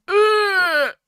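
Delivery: high, loud mock cry of too much sugar; overwhelmed groan. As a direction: cry out like a sweet tooth overloaded. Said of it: "your sweet tooth will be like".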